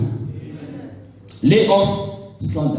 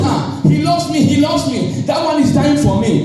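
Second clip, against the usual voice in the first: mock lovestruck woman; 7 semitones higher than usual. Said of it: "Don't say".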